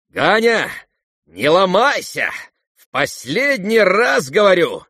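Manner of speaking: high, loud pushing command; urgent demand. Acted. Ferdyshchenko urging Ganya, loud and insistent. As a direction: press him hard to act.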